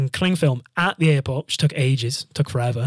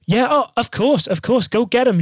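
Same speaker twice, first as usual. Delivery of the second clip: over-polite encouragement; 9 semitones higher, 3 dB louder than usual. Retold or imitated. Queuer waving a late passenger through, high-pitched put-on cheer. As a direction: gush it, imitating a falsely obliging queuer.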